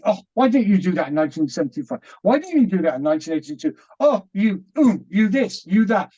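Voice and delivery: quick, retold nagging at oneself; agitated self-reproach. Man scolding himself over missed chances, agitated. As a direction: rattle off reproaches, mildly agitated. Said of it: "I'm getting quite agitated with myself".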